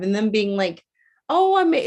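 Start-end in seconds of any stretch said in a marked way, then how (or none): 1.3-1.9 put-on older woman voice. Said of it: "it's, like, an older woman I'm talking to".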